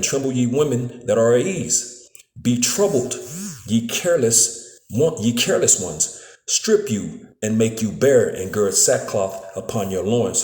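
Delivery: slow, solemn scripture reading. Acted. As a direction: read the verse slowly, like Bible study. Reads Isaiah verse eleven.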